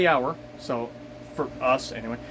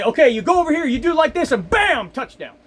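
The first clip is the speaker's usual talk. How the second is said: Madden commentator; 8 semitones higher than usual. Retold or imitated. Driver mocks navigation app as Madden calling a play, high mock commentator voice. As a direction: rattle it off like a football analyst drawing plays. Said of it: "It's like watching Madden trying to fucking say".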